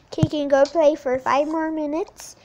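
playing mom. Kid playing mom tells daughter about dinner, lightly voiced mom. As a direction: call to your child like a busy mom.

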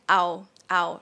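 "Ow" cut short; short vowel. Shown as a demonstration. Teacher shows the short version, brief "Ow". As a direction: say "Ow" quickly, without stretching it. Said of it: "the short version of ow".

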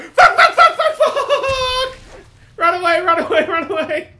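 distant panicked shouting; yelling from across the room; far from mic. Real, not acted. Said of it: "If I sound further away, that's because I am".

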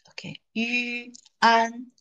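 yuan drawn out slowly as one syllable; teacher models yuan slowly; model pronunciation. Shown as a demonstration. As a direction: stretch yuan slowly for the class. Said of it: "this is read".

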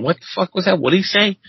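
asking in a high, baffled voice; baffled question. Retold or imitated. New cook asks coworkers about the Cajun chef, baffled and high. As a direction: retell the panic of not understanding.

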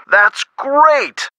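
pleased, high-pitched cheer; delighted. Acted. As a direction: jump up in pitch at the good news. Hears good news on the case.

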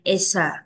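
"It's a" run together as one word; linked sounds. Shown as a demonstration. Teacher shows children linking, "It's a" joined up. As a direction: carry the s of "It's a" into the vowel. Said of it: "Mình nối âm qua mình đọc là it's a".

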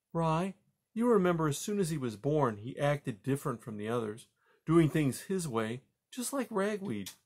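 reflective wife, pitch climbing at the end; lightly voiced mother mouse. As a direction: remind your husband, slowing toward the end. Mother mouse reasons with husband.

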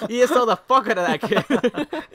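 slow, high mock shout; mock group verdict. Imitating people ordering a kid into E S L, hammed-up shout. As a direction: yell it out like an outraged crowd. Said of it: "They were all like".

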